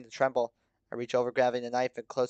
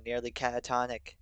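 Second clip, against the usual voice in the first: usual speaking voice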